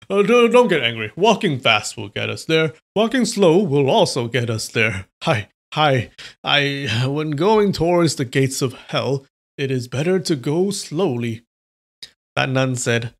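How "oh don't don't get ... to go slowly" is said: put-on old man right take. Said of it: "that is what he said".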